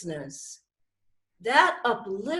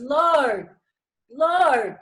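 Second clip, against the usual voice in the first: pleading cry; 2 semitones higher, slower than usual. Acted. Anthony cries to Jesus.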